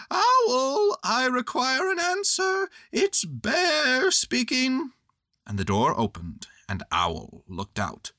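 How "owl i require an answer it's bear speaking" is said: high, loud bear calling out; loud Pooh call. A narrator's reading. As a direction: call out loudly in a high character voice. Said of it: "called out in a very loud voice".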